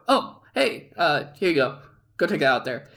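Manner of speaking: mock switch from fury to friendly; suddenly casual. Boss handing chicken to the worker mid-argument, suddenly casual. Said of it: "He went from angry, red face to".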